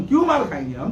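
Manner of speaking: said through a short, scornful laugh; bitter laugh. Real, not acted. Cleric scoffing at the crowd's advice, laughing bitterly. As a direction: laugh it off in disbelief.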